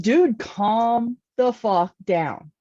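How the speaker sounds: slow, drawn-out exasperation; exasperated retort. Retold or imitated. Telling a defensive man to relax, exasperated. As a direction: stretch it out to settle him.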